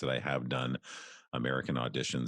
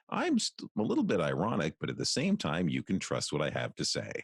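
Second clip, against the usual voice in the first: ironic trustworthy announcer. Shown as a demonstration. Voice actor signing off an ad spot, slightly ironic trustworthy announcer. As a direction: sell it with a touch of irony, yet trustworthy. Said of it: "slightly ironic yet still trustworthy announcer".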